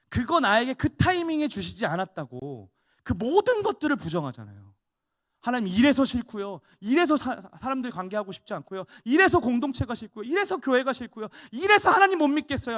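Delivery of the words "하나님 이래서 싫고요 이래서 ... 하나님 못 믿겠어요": complaining believer, mimicked.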